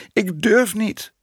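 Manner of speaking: high, drawn-out plaintive wail; plaintive complaint. A narrator's reading. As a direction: complain fearfully, high and slow. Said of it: "klaagde de juffrouw". (hoog en klagend)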